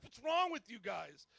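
acted-out telling-off; mad. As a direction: scold them as an angry boss. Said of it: "He was all mad at us".

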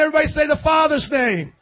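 loud, fast call to the crowd; preacher shouting for a response. Real, not acted. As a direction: rouse them to answer back. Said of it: "one more time now".

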